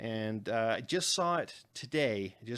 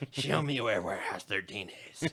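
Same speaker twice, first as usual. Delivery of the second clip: lower, lips held still; stiff upper lip voice; 3 semitones lower than usual. Pretend. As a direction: mimic a stiff-lipped actress. Joins the stiff-lipped imitation.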